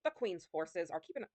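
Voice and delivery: slow pirate voice with a slight Scottish slant; pirate accent sliding Scottish. Acted. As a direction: attempt a pirate accent, drifting toward Scottish. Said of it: "it's trying to slide into Scottish".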